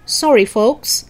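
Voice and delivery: loud, slow call-out; yelling. Acted. Man calls from the moving van, yelling. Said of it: "a man yelled from the moving van".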